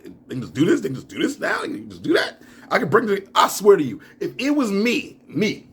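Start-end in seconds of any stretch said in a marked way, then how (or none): 0.0-2.4 climbing incredulous pitch; disbelief. Real, not acted. Rising disbelief.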